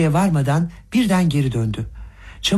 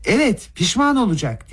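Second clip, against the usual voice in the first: high-pitched shout, much higher; Rogojin shouting; 7 semitones higher than usual. A narrator's reading. Rogojin threatening Gavrila, high shout. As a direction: shout the threat across the room. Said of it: "diye bağırdı Rogojin".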